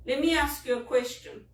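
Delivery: a touch of a scripted phone agent; imitating customer service. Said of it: "That's how they talk".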